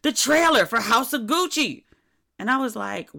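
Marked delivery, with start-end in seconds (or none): 0.0-1.8 mock-gushing, slow and drawn out, higher and louder; gushing excitement. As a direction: ham up the table's starstruck squeal over the trailer. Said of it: "everybody at the table was like".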